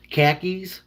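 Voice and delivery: KHAKIS said like the trousers; said like pants. Shown as a demonstration. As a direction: say KHAKIS like the pants, Boston-style car keys. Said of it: "You have to say, like, the, the pants".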